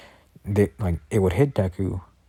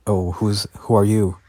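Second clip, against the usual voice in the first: mildly startled, louder on the repeat; lightly acted jolt of surprise, building in volume; 4 dB louder than usual. Men see Deku jump down in front of them, mildly startled. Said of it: "they would get startled".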